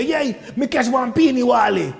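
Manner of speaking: patois version of the same line; proud patois answer to the American line; Jamaican patois version. Retold or imitated. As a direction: say it the island way. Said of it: "We say".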